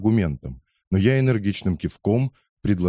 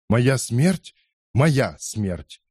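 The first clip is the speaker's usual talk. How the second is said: exclaiming; 4 semitones higher, much slower than usual. Acted. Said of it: "воскликнул Кетчу".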